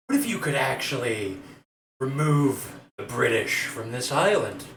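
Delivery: smooth monk recruiter. Acted. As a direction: lure him in like a sly Cheshire cat.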